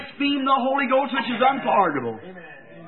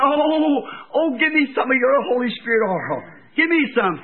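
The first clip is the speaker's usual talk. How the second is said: mock pleading; 2 semitones higher than usual. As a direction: plead like someone suddenly caught short. Foolish virgins beg for oil.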